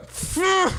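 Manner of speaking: high-pitched burst of frustration; frustrated curse. Real, not acted. Failing the accent retry, frustrated high curse. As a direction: curse yourself as the word goes wrong.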